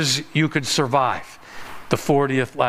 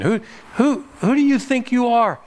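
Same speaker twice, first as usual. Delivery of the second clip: higher, mock-indignant challenge; 8 semitones higher than usual. One missionary confronting another over his position, mock-indignant. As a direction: challenge him, pitched up, as a retold confrontation.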